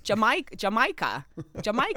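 "Jamaica" repeated in an imitated odd accent; boyfriend's odd pronunciation. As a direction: mimic his puzzling accent on "Jamaica". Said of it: "when he says it".

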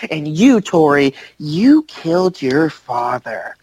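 lightly acted low accusation, slowing at the end; a hint of grave, drawn-out blame; accusing stepmother. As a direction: deliver a mock soap-opera indictment. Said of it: "she goes on about how".

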